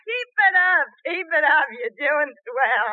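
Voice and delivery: mocking laugh. Wife mocks husband laughing.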